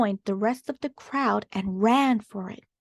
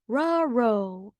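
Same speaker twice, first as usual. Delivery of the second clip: Scooby dog voice. Acted. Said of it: "barked Scooby".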